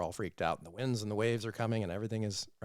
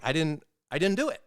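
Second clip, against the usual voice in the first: quick, higher-pitched protest of innocence; defensive denial; 5 semitones higher, faster than usual. Acted. Us judging ourselves for missing the mark, defensively. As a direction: deny it hurriedly, like someone caught out.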